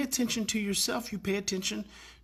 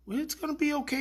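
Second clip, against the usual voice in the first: higher, gentle retold comfort; calm reassurance; 6 semitones higher, 3 dB quieter, faster than usual. Carer talking to the mad boy, calm. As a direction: soothe an upset kid, unhurried. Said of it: "real calmly".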